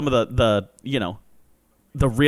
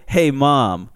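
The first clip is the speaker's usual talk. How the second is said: mock little kid blurting it out loud; kid yelling crap; 5 dB louder, much slower than usual. Little cousin in the car teasing his mom, cheeky shout.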